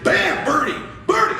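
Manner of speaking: high, loud celebration; excited yelling. Retold or imitated. Dad celebrating his son's birdie, yelling high and excited. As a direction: burst out cheering the putt.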